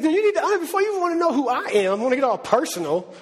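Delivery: lightly voiced God, high and pressing, a bit rushed; a hint of a grand, amused God; God's voice. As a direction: play God setting the record straight, then slowing on I am being. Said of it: "He's like".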